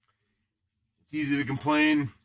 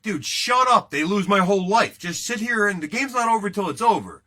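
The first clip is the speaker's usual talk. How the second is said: raised, louder retold scolding; exasperated retort; 4 semitones higher, 3 dB louder than usual. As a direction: set the cranky kid straight. Retelling his retort to whining kid.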